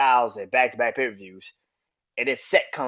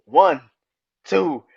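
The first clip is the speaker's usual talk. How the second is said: loud, high-pitched play-by-play of the pin; excited match call; 7 semitones higher, 9 dB louder than usual. Retold or imitated. Recapping the finish for his viewers, loud excited play-by-play.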